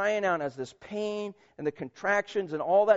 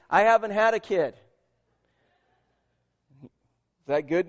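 preaching at full force; 2 semitones higher than usual. Acted. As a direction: preach it out to the pews, full volume.

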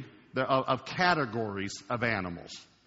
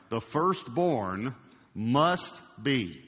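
slow dictation; much slower than usual. Shown as a demonstration. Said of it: "I want you to write these down".

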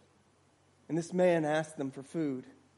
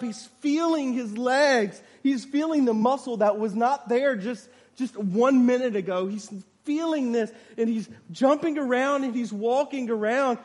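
raised, driving sermon storytelling; emphatic preaching; 7 semitones higher, 8 dB louder than usual. A narrator's reading. Preacher describing the healed man to a congregation, emphatic preaching. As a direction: build wonder through emphatic narration.

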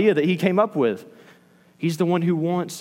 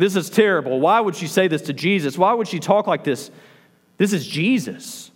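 higher, mildly appalled questions; mock disapproval; 3 semitones higher than usual. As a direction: act out a scandalized reader. Voicing readers appalled by Martha.

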